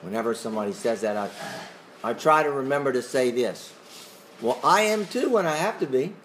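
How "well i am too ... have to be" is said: wry sarcastic comeback. Shown as a demonstration. Teacher answering "he's a good guy" talk, sarcastically. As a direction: say it as a tongue-in-cheek retort. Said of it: "bit of sarcasm".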